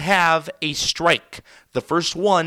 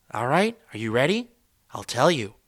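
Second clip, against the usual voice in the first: much softer and lower, teasing; quiet lead-in to a shout; hushed setup; 6 semitones lower, 6 dB quieter than usual. Pretend. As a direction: hold back before the punchline. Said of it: "let me let you in on a little secret".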